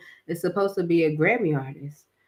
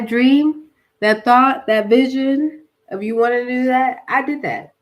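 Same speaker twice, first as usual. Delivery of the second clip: emphatic God; 5 semitones higher, 4 dB louder than usual. Retold or imitated. God voiced insisting.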